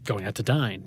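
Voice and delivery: "dine" said for down, as in Belfast; Belfast pronunciation of down. Shown as a demonstration. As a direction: flatten the vowel of down into "dine". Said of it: "it was supposed to be pronounced dine".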